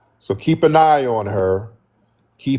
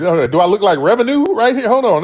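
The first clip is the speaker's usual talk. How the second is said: half-joking offended outburst, louder and higher; mock offended; 9 semitones higher, 4 dB louder than usual. Real, not acted. Streamer to chat about looking like revenue, mock offended. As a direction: play up being insulted, laughing it off. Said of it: "Now I'm offended a little bit".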